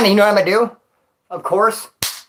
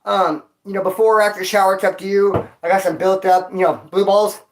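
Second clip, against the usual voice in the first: cheeky request. Retold or imitated. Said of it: "I was like".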